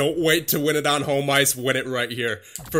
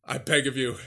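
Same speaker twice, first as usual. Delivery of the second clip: quiet pleading; 4 dB quieter, slower than usual. Real, not acted. Begging his simulated team.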